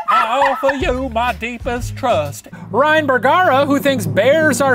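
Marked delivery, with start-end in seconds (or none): 0.1-2.5 mock Southern accent. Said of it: "Oscar from The Office trying to do a Southern accent".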